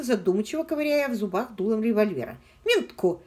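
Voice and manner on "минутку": settling it. A narrator's reading. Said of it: "отозвалась здравомыслящая девица".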